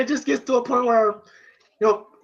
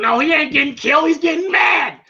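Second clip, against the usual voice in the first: quick, higher mock shout; emphatic rebuttal; 5 semitones higher than usual. Apollo correcting the other cornerman, emphatic. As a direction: insist like an excited cornerman. Apollo insists, retold heatedly.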